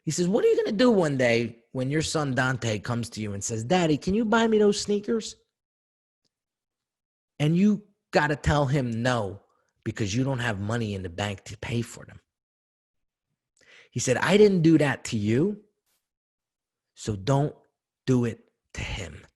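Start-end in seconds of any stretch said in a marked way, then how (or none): 0.3-3.6 dad warning son about the future; stern father challenge. Retold or imitated. Father lecturing son, retold. 3.6-5.4 put-on much higher pleading child; father mimics grandson begging for sneakers; little kid voice. Imitating a small child asking. 7.4-19.3 retold dad warning his son not to repeat it; stern fatherly warning.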